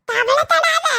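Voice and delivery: தவளை தடாத said high with every sound turned to "த"; தவளை தடாத in a mangled high old-man voice; speech defect. Acted. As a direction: lisp through தவளை தடாத, swapping sounds for "த". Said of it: "தா பதிலா மா போட்டு பேசுகா".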